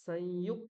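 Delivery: সংযুক said loud, stopping hard on the first ক; ক দুবার; doubled ক. Shown as a demonstration. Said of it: "দুবার উচ্চারণ করতে হবে".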